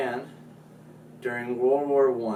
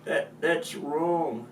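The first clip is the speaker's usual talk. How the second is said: loud, high mock British scolding; hammed-up British accent telling off; 3 semitones higher, 6 dB louder than usual. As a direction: shout it like a cartoon Brit. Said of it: "The Brits went".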